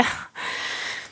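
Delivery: breathy, voiceless mock sob; imitated bawling. Telling how a movie line hit her, mock bawling. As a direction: act out a burst of bawling without voice. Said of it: "I was bawling".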